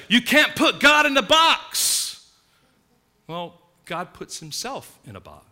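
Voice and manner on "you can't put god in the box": raised, slow, higher, mocking quote; mock loud quote. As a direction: call it out like the crowd says it. Quoting what people say loudly.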